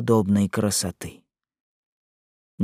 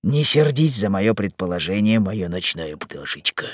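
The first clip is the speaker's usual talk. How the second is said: softening, slowing kindly address; friendly; 3 semitones lower than usual. Acted. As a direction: ease down gently into the pet name. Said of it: "приветливо обратясь к незнакомке".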